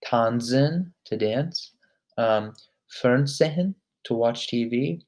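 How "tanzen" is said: "Tanzen" with a sharp ts for the z; stress the Z. Shown as a demonstration. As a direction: model "Tanzen", hit the N Z sound. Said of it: "You really want to emphasize the Z".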